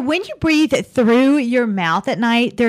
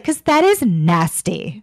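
slow imitation of a Southern flight attendant; Southern accent; 2 semitones lower, slower than usual. Flight attendant disgusted by passengers' used masks, slow Southern accent. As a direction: lightly mimic a Southern accent, drawing out each word. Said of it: "more of a Southern accent".

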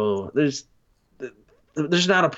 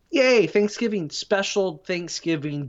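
higher, sarcastic little "yay, Thanksgiving"; mock cheer; 5 semitones higher than usual. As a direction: fake enthusiasm for a dinner that let him down. Sarcastic cheer before bad dinner.

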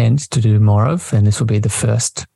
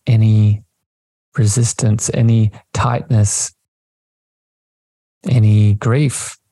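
slow meditation voice with long pauses; unhurried, spacious delivery, lingering on key words; guided meditation. Acted. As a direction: guide listeners slowly, phrase by phrase, into the breath.

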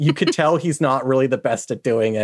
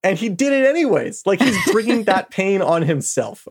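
indignant protest; 5 semitones higher than usual. Real, not acted. Heated defense in group banter.

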